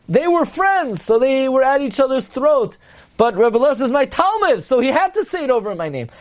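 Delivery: high, heated retort from a rabbi; indignant teacher. Retold or imitated. Rabbi Yochanan rebuking his students, heated and high.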